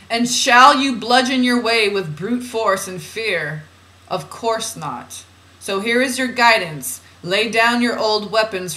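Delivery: measured, deliberate spiritual reading; oracle reading. Acted. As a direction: read it out as solemn guidance. Reads channeled guidance aloud.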